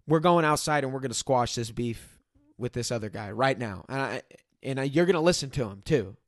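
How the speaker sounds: understated retold order; firm, no-nonsense. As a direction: lay down the law without raising your voice. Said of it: "I'm talking to him like this".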